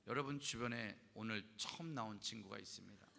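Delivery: a hint of a solemn pastor addressing the camp; lightly voiced preacher calling the crowd to pray; preaching pastor. Pastor at revival camp urging kids to pray, lightly preachy. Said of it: "거기 계신 목사님이".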